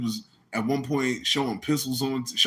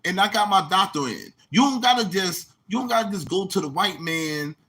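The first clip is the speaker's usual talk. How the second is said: high, preachy put-on voice; mock pompous doctor; 7 semitones higher than usual. Mocking Doctor Reggie lecturing his critics, high and preachy. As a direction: lecture like a self-made doctor.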